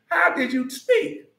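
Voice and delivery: high, slow shouted question; preaching shout. Real, not acted. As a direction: demand the answer from the crowd. Preacher demands answer from crowd.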